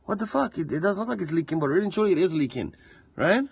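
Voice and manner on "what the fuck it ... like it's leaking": surprised. Retold or imitated. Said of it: "you're like".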